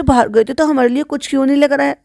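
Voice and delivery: high-pitched imitation of prompting a child; feed the child an accusing question, mockingly; mock coached question. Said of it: "पापा से पूछो, पापा से पूछो".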